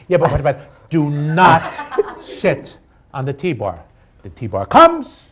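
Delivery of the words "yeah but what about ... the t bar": laughing. Retold or imitated. Mocking his friend's repeated warning.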